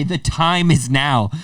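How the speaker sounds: slow, solemn hero proclamation; epic quest line. Shown as a demonstration. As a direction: announce it like the start of a grand quest. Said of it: "like a quest".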